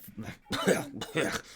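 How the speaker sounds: guttural monster grunts and growl; growling creature sound effect; imitated troll noises. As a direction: make the noises of a hurt troll. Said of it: "as it kind of".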